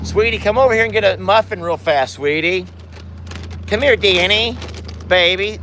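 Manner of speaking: high, sweet pet-talk; coaxing. Real, not acted. Calling a cow over for a muffin, coaxing.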